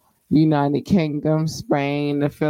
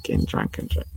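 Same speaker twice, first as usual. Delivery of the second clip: whisper; 5 dB quieter, faster than usual. Acted. Repeating drunk warning, aside.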